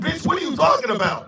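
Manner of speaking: fast, laughing scoff; incredulous laughing retort; laughing disbelief. Real, not acted.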